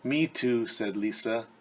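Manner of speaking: lively storybook read-aloud; reading to children. Acted. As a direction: read it like story time for kids. Reads picture book to children.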